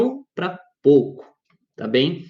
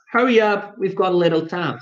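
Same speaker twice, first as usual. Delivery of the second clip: hurried; 2 semitones higher than usual. Retold or imitated. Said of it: "It's exactly like this".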